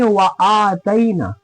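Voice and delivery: व आतैना with brief wa, then long held aa; quick short wa. Shown as a demonstration. Teacher modelling the reading, short व in व आतैना. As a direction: release व quickly and stretch the आ of आतैना. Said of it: "जल्दी पढ़ते हैं".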